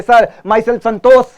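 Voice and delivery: "संतोष" ending cut off as "संतो", asking tone; wrong "संतोष" with dropped end. Pretend. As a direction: swallow the ending of "संतोष" with a rising tune. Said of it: "अपना नाम ऐसे बोलेंगे". ("संतोष" का आख़िरी ष निगलते हुए, सवाल जैसे)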